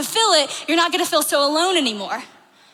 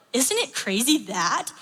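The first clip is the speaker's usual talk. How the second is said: lower, softer musing question; saying with mock wonder; 4 semitones lower, 5 dB quieter than usual. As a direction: pose it like an understated puzzle. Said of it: "it kinda goes like this".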